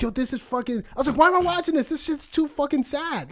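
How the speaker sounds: high, laughing disbelief; laughing, teary. Retold or imitated. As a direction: moan it through laughter and tears.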